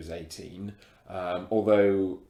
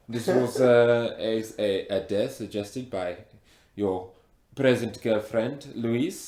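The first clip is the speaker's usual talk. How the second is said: put-on heavy African accent; 4 dB louder than usual. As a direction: speak with a thick African accent. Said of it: "you've got a very thick accent".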